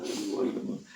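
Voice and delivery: high-pitched hammed-up whimpering; exaggerated helpless crying voice, very high; mock tearful wail. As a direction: imitate someone wailing that they're falling. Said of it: "que me muero, llorando".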